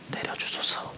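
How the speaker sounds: 숨소리로만 속삭이듯; 간절히 숨죽여 비는 기도; 속삭이는 기도. Acted. 엘리야의 기도. (기도 끝을 숨소리로 속삭이는 엘리야)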